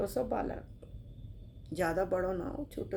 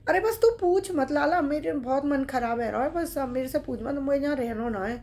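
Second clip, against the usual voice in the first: upset refusal; 4 semitones higher, 5 dB louder than usual. Acted. Upset old man refuses.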